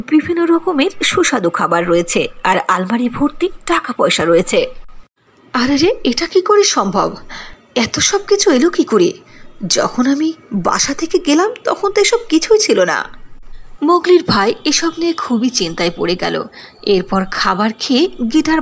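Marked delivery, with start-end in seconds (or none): 5.5-13.2 a rising touch of wonder and confusion; astonished brother. Acted. Little brother finding his hut turned into a mansion, amazed. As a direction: marvel at the impossible mansion.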